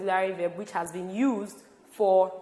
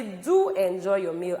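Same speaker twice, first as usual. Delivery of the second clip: "Do" lifted and stressed; emphatic stress on Do. Shown as a demonstration. Teacher actually wants you to enjoy, stressing Do. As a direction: lean on "Do" so the wish counts. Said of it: "stressing anything. But if I say".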